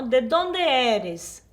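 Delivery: ¿De dónde eres? said very slowly, every syllable clear; slow model question. Shown as a demonstration. Teacher to students, modelling the question very slowly. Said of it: "teacher models question for class".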